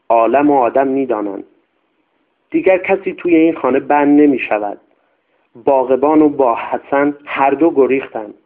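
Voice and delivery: lightly voiced old servant, anxious, insisting; a hint of a superstitious old nanny pleading her case; old servant woman. Old servant tells of haunting. (خدمتکار پیر، کمی نگران و مصر)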